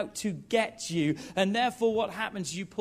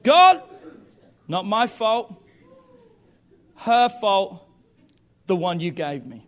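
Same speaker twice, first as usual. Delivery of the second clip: protesting cry; 3 semitones higher, 9 dB louder, slower than usual. Acted. Adam's excuse continued.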